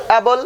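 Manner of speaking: অ্যাবল as a careful standalone word; model pronunciation. Shown as a demonstration. Teacher repeating the word for students to learn, model pronunciation. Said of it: "উচ্চারণগুলোও শিখে নেবে".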